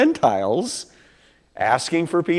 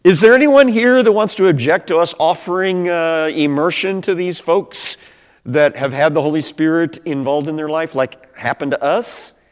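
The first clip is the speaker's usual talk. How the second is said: Peter asking the crowd; 5 semitones higher, 5 dB louder than usual. Retold or imitated. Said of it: "And he says".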